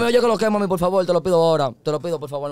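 urgent, insistent mock begging; pleading. Begging mami for a favor, acted pleading.

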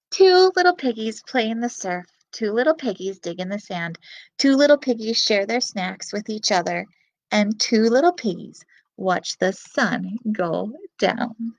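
lively storybook reading voice; reading to children. Acted. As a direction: read it to little kids. Reads picture book to children.

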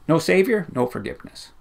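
rising to a loud high climax; building preaching. Real, not acted. Preacher to the congregation, building to a loud climax.

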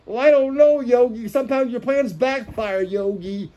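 lightly voiced worried cartoon sidekick. Sidekick warns Yogi his plans backfire, lightly put-on cartoon voice. Acted Boo-Boo addressing Yogi.

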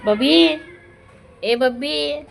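high, lilting pet call; high-pitched coaxing name call. Real, not acted. Calling to an unresponsive pet.

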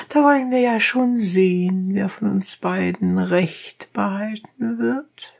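high, rough peasant voice; donkey driver. A narrator's reading. Donkey driver challenging the dentist, high and blunt.

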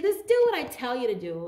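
P=A; bossy command. Real, not acted. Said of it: "You see what I, they did".

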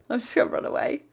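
a hushed getaway; whispered. Real, not acted. Sneaking away from the pigmen, whispered.

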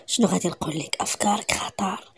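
hushed secretive whisper; conspiratorial whisper. Acted. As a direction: lean in and breathe it low. Villain confides a secret plan.

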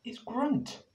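short guttural grunt. A narrator's reading. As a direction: grunt it like a caveman. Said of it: "All he would do is grunt".

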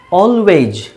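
"Always" drawn out carefully, falling at the end; pronunciation model. Shown as a demonstration. Teacher answers what is its pronunciation, careful pronunciation model. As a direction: say "Always" slowly and clearly for learners to copy. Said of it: "what is its pronunciation?".

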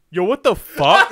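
hammed-up outrage, laughing; mock angry yell. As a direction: bark it like a startled tough guy. Voicing Sean's angry reaction.

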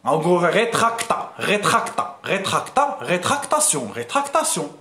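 ريتراكتا repeated, then ريتراكتاسيون completed; building up the word. Shown as a demonstration. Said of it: "كتشدها تقسمها مزيان".

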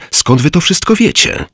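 astonished, demanding to know; amazed exclaim. Acted. Narrator asks the old beggar, amazed and high-pitched. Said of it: "zawołałem".

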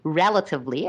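"relatively" set apart with emphasis; stress on relatively. Real, not acted. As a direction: lean on the word "relatively" as a caveat. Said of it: "I'm emphasizing the word relatively".

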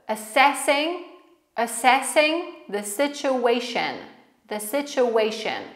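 phrase split up with pauses for repetition; broken into chunks. Shown as a demonstration. Teacher drilling pronunciation for learners to repeat, chunk by chunk. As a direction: model it piece by piece, leaving gaps. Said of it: "Będziemy sobie tak trochę dzielić to wszystko".

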